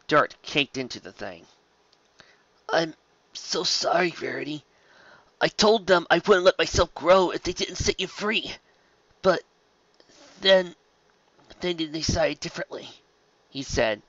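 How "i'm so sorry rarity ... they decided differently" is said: lame apology. A narrator's reading. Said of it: "his tone dropping lamely at the sentence".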